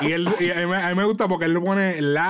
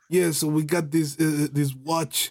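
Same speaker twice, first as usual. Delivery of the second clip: imitated Russian accent; 2 semitones lower than usual. Describing how a Russian man talks to you, imitated Russian accent. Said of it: "que él te hable con ese acento de".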